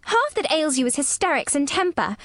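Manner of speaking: put-on high, scolding child; shouting. A narrator's reading. Girl telling the boy what ails him, shouting. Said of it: "shouted Mary".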